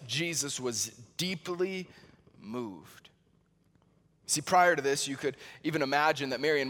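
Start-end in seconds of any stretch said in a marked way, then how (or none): 0.1-3.1 hushed. Real, not acted. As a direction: voice sinks almost to nothing on moved. Solemn climax, voice drops.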